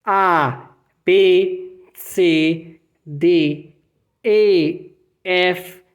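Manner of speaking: German alphabet letter by letter; reciting alphabet. Shown as a demonstration. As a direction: recite the alphabet for students to repeat. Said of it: "Vamos lá, comigo".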